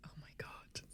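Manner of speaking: hushed horrified whisper. Real, not acted. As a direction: breathe it out in dismay. Reacting to creepy ASMR clip.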